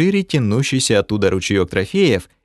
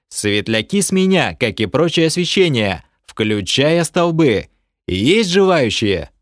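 calling out; 3 semitones higher than usual. Acted. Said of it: "выкрикнул".

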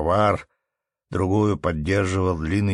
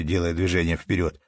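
ordinary delivery, nothing marked

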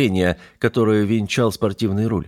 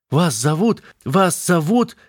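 higher, groping for the name; faltering panic; 10 semitones higher, slower than usual. Acted. Юля не может вспомнить имя механика, растерянно. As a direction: search for a name you've lost, rising. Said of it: "К своему ужасу Юля поняла".

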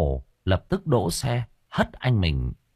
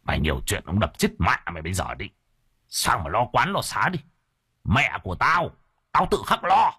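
threatening husband. Acted. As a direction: warn your wife off. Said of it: "Ông trợn mắt".

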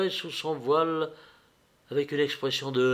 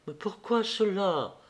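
altered voice; 6 semitones higher than usual. A narrator's reading. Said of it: "d'une voix altérée".

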